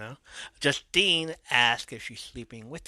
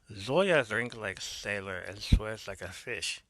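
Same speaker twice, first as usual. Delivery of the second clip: slow, lightly put-on Russian accent; a hint of a Russian accent, slowly; 2 semitones lower than usual. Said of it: "puts on the Russian accent".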